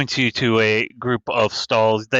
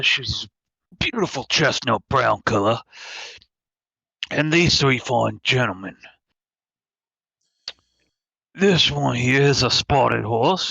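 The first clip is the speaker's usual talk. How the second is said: lightly voiced sly shopkeeper; a hint of a sly merchant pitch; Resident Evil Four merchant. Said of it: "Resident Evil Four merchant voice".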